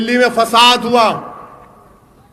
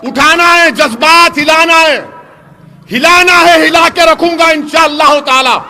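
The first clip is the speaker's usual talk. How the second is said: building rally shout; 3 semitones higher, 3 dB louder than usual. Real, not acted. Stirring up the crowd.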